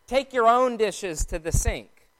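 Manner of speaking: "own" made the most prominent word; stress on "own". Shown as a demonstration. Mom speaking after dinner, stress on "own". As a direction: punch "own" like a household order. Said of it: "There's emphasis on the word own in that sentence".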